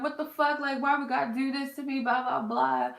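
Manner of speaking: high, upset crying rant; wailing at the unfairness, half acted; retold crying. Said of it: "I called my sister crying".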